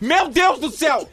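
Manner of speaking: high, loud, slow amazement; shocked exclamation. Real, not acted. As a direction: gasp it out in disbelief. Hears 250-person team.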